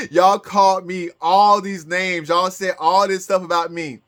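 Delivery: usual speaking voice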